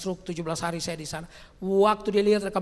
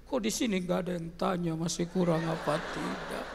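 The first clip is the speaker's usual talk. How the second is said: teasing aside. Real, not acted.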